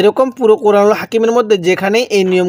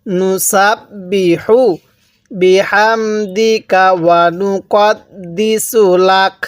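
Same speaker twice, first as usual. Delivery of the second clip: slow drawn-out Quranic chanting; tajweed recitation; slower than usual. Shown as a demonstration. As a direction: recite slowly for students to echo. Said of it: "কিভাবে পড়ব".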